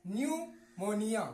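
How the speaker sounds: slow "न्यूमोनिया" starting on n; silent p. Shown as a demonstration. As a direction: model "न्यूमोनिया" slowly without any p. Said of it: "उच्चारण नहीं होगा". ("न्यूमोनिया" धीरे, प silent)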